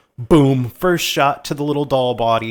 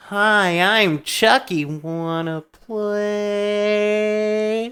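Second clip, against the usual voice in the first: high, slow sing-song toy voice; sweet, chirpy toy doll greeting; talking doll; 7 semitones higher, much slower than usual. Retold or imitated. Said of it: "it goes back to the doll voice".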